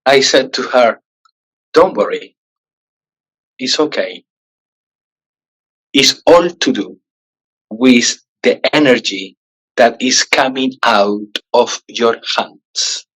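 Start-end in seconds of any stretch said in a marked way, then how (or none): 1.7-13.1 sweetest manner. Retold or imitated. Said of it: "in the sweetest manner possible".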